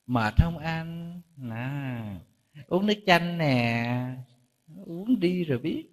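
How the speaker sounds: mock-sweet tending to a tired husband; wife sweetly offering husband lemonade, coaxing. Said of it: "Cứ ngọt ngào".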